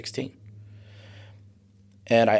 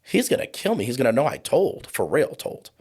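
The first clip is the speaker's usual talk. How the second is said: high, panicked pleading, much higher pitch; reliving the panic; 5 semitones higher than usual. Retold or imitated. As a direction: replay a scared kid begging them not to come. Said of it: "So I'm terrified".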